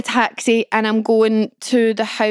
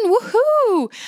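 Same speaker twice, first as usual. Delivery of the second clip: high mock cheer, far above her usual voice; sarcastic woohoo; 11 semitones higher than usual. About Sunday morning work, mock-cheerful high woohoo. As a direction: fake celebrate having to work.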